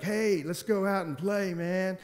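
imaginary friend calling him to play; fake Bo. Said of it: "and I'd be like".

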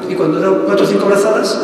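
ordinary talk, nothing marked

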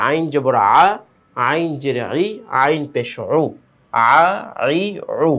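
আ, আই, উ from the throat, cut short; throaty and quick. Shown as a demonstration. Teacher drilling pupils on আইন, throaty and quick. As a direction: squeeze আইন from the throat without lingering. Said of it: "সেটা তাড়াতাড়ি".

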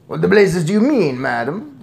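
loud, high outburst easing off; indignant shout. A narrator's reading. Father challenges grandmother's claim, shouting. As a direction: demand an explanation loudly. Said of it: "shouted Mister Jenkins".

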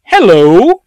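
loud, high, swooping hello; greeting as looming artillery. Acted. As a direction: call out a mock-cheery greeting. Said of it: "sitting there to go".

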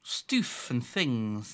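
soft slow whispered echo; whispering. Acted. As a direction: whisper the joke back. Echoes the whispered joke.

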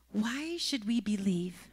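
hushed whisper of the question. Shown as a demonstration. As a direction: drop to a breath, no voice. Same question repeated softly.

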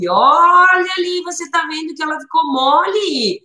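put-on high, bright singsong for a little child, rising to a near shout; playful preschool teacher showing off a magic trick; teacher talking to a toddler. Shown as a demonstration. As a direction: sell the pen trick like magic to a four-year-old. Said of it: "Ah, eu vou dizer assim".

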